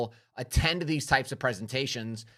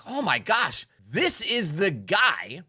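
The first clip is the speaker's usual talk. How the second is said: appalled realization; 3 semitones higher than usual. Retold or imitated. Speaker recalling his reaction to a scammy webinar host, appalled. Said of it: "I was like".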